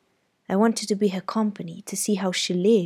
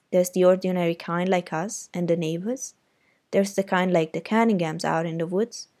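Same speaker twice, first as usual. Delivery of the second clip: louder, knowing brother; big brother; 5 dB louder than usual. Acted. Jem advising Scout about Auntie, louder. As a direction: advise her like an older brother. Jem explains his theory.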